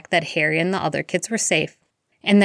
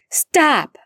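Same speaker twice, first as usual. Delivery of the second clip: high, loud cry over the spells; desperate shout; 10 semitones higher, 5 dB louder than usual. Acted. Remus shouting over stunning spells, high and loud. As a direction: shout to stop the fight. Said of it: "shouted over the stunning spells".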